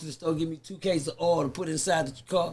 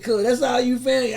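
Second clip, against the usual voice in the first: incredulous; 5 semitones higher, 7 dB louder, slower than usual. Retold or imitated. Retelling disbelief at partner's haul.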